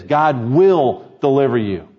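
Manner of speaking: slow, firm stress on "will"; without equivocation. Acted. Samuel assuring the people of deliverance, unequivocal stress on "will". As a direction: declare it with "will" drawn out. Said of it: "He speaks without equivocation".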